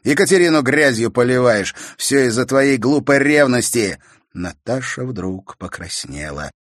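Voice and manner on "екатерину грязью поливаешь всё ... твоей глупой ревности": louder, higher counterattack; angry accusation. A narrator's reading. Brother accusing sister of jealousy, angry. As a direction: throw it back at her.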